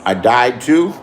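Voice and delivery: low, rising disbelief; surprised question. Real, not acted. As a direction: ask it like you can't believe it. Hears rumor he died.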